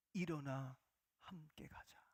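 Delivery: soft, hushed invitation; gentle whisper of Jesus. Acted. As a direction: barely breathe it, tenderly. Jesus speaks to weeping believers. (속삭이듯 부드럽게)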